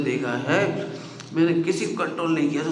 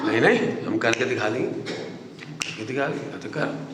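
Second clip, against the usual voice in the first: mock boastful; 5 semitones lower, 4 dB quieter than usual. Listener claims they'll do it.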